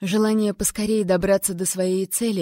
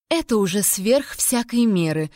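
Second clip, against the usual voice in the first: scoffing. Acted. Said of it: "фыркнула Селия".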